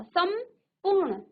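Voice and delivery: संपूर्ण drawn out slowly, half-m clearly heard; slow demonstration. Shown as a demonstration. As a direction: stretch संपूर्ण so the half-m comes through. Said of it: "आधा मौ का".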